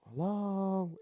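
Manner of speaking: high, drawn-out questioning hello; calling out. Retold or imitated. Dreamer calling from the door to whoever cries, calling out. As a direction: call out to someone unseen.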